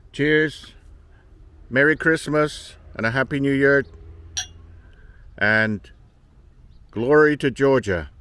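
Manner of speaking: joyful celebratory shouting; loud festive toast. Real, not acted. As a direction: raise your glass and cheer loudly.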